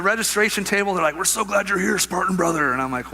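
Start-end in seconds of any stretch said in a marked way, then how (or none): 1.2-2.7 higher-pitched eager welcome, imitated; mock enthusiastic event volunteer; lightly sending up an over-keen greeter; gushing greeter.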